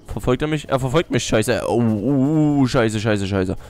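rising frantic panic; panicking gamer. Real, not acted. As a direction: panic as the enemy closes in. Enemy catches up.

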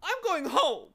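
high, loud, wailing outburst; hammed-up, high-pitched blubbering; sobbing. A narrator's reading. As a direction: wail it like a tearful little creature. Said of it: "he sobbed".

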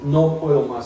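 low, soft, drained retelling; sin fuerzas. Retold or imitated. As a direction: re-enact giving up, voice sinking. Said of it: "se me fueron las, las fuerzas". (agotado, derrotado, en voz baja)

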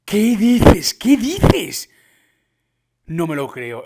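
loud, high cry of disbelief; real, escalating astonishment; stunned outburst. Real, not acted. Stunned reaction to game update.

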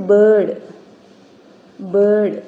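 ബേർഡ് said loud and firm as a model; teacher projecting the example word; emphatic demo word. Shown as a demonstration. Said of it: "ഇങ്ങനെയാണ് phonetic transcription".

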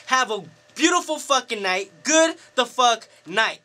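snapped, fed up. Retold or imitated. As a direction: act out losing your temper in a sweary rant. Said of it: "I snapped. I said".

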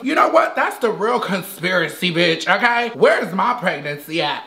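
a hint of a feminine character voice, half-hearted; Mimi. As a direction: play a dramatic woman looking for love. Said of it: "my name is Mimi".

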